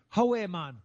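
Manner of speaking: mock Geordie greeting; Geordie accent. Host waiting for the Geordie video, Geordie accent. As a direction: put on a Newcastle accent. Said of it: "Just bring up the Geordie accent".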